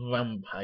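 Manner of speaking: "vampire," drawn out slowly, leaning on the start; heavy emphasis. Shown as a demonstration. Showing how to play a vampire, "vampire," stretched for emphasis. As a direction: lean hard into "vampire," and stretch it. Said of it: "Gotta put a lot of emphasis".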